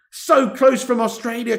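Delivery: high, loud and drawn out; excited near-miss cry. Real, not acted. Fan just after Australia nearly scored, excited cry. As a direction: stretch it out, still worked up.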